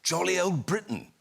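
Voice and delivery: a hint of a plummy royal doing an interview; imitating Prince Charles. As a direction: stretch the key words like a royal. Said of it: "he says".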